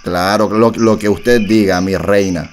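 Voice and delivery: low-key flirty star voice, barely changed; a singer impression. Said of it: "te habla un cantante".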